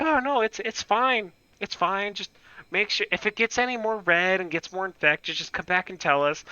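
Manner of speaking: high, airy reassurance; mock the staff waving it off; breezy doctors. Hospital staff brushing off the patient, mock breezy. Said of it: "And they're like".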